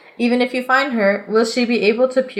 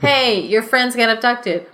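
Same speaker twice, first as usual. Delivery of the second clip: slow, flat parody of a lazy plot hook; mock a tired story opening; mock story opener; slower than usual. Mocking the usual gamebook hook, slow and dry. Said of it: "our stories where it's just like".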